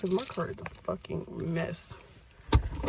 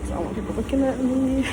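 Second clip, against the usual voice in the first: laughing; 6 semitones higher than usual. Real, not acted. Laughs at empty gym.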